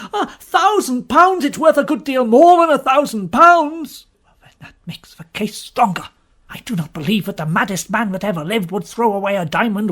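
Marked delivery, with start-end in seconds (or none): 0.1-4.1 high, loud cry of disbelief; astonished outburst. Acted. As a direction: blurt it out, stunned by the sum. Pugh astonished at the diamond's worth.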